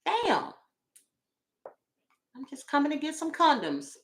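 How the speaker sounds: high, soft, fed-up answer; exasperated reply. Retold or imitated. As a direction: sigh it out, annoyed.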